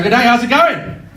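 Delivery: loud, high mock-Australian greeting; bad Australian accent. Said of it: "I can't do an Australian accent".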